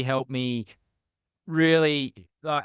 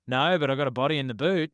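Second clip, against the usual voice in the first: sarcastic; faster than usual. Retold or imitated. Telling the fruit police officer, sarcastic retort. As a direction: toss it off as a deadpan joke. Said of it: "just sarcastically".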